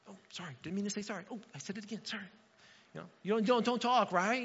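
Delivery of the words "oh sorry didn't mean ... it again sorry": embarrassed apology. Retold or imitated. Flustered apology after shushing in church.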